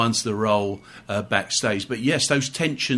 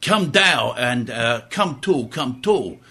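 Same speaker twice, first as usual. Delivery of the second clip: put-on Brooklyn accent; slower than usual. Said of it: "in my, uh, Brooklyn accent".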